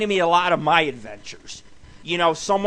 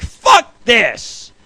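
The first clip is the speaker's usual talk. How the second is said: mock stoner yell; 8 semitones higher, 10 dB louder, much slower than usual. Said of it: "I was like".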